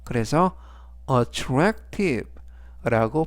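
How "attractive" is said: "attractive" said slowly with stress on TRAC; careful model "attractive", second syllable stressed; stress on middle A. Shown as a demonstration. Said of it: "이때 강세는 중간 부분에 있는". ("attractive"의 중간 A에 강세를 두고 천천히)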